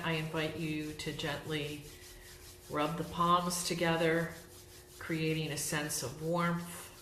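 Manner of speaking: gentle guided self-massage, with long pauses; guided relaxation. Real, not acted. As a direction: guide them unhurriedly through each step, pausing between phrases. Leads guided self-massage, yoga nidra.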